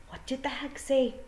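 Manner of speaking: high, small wee-man question; tiny fairy voice. A narrator's reading. Wee man asking his friend, high small voice. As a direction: ask it nervously.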